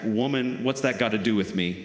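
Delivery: quick, lightly exasperated snap; a touch of irritated son brushing mom off. Acted. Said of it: "sounding a bit exasperated, snaps back".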